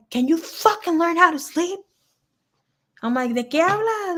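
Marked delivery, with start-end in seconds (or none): 0.1-1.8 mock annoyed dad. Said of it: "And he's like". 3.3-4.2 mock scared reply. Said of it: "you're all fucking scared".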